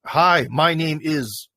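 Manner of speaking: slow, halting learner English; mock beginner reading off a phrasebook; beginner's halting English. Journalist mocked as a language beginner, slow and halting. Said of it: "person comes to visit England".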